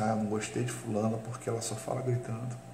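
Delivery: softly voiced quote of a quiet talker; fala baixa imitada. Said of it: "a pessoa que fala baixo diz assim". (imitando de leve quem fala baixo)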